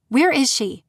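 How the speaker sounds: sharp, demanding question; angry snap. Acted. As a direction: snap it at him, furious and scared. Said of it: "I snapped".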